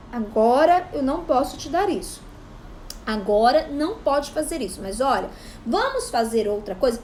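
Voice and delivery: calm, steady, settled statement; clear and calm. Shown as a demonstration. A parent setting a clear limit for a child, calm and steady. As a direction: say it simply and firmly, no excuses. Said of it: "só fale com clareza".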